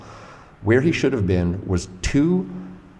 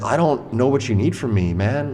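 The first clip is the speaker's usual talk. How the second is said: retold exasperated protest, higher pitch; swearing at him; 5 semitones higher than usual. Resident to bleeding stranger wanting help, exasperated. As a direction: push back at someone, pitched up but not shouting. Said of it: "I'm swearing at him".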